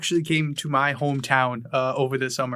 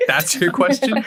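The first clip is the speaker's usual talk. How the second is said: laughing disbelief; 6 semitones higher than usual. Real, not acted. Laughing at friend's question.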